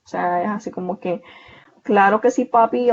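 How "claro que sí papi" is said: put-on light Puerto Rican accent, a bit louder; playful Puerto Rican imitation of "Claro que sí, papi"; mock Puerto Rican accent. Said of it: "hablan como con la L".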